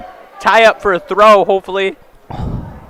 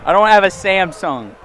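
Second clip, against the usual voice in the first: indignant; 2 semitones higher than usual. Real, not acted. Indignant correction about phone.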